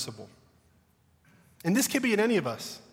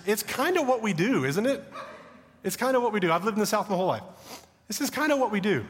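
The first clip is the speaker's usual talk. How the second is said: amused admission; 4 semitones higher than usual. Real, not acted. Laughing admission about the South.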